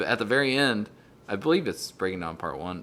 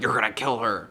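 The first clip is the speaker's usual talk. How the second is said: mild impression of an upset werewolf; lightly acted, urgent warning; Jacob. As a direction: say it as a half-hearted character impression. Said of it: "That's, like, my best Jacob impression".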